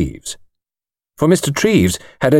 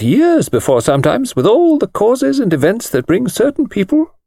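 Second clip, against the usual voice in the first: thin precise voice; 8 semitones higher than usual. A narrator's reading. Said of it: "thin, precise little voice".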